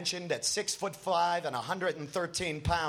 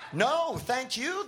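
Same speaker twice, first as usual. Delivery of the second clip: excited reply; 8 semitones higher, slower than usual. A narrator's reading. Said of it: "the drummer excitedly replies".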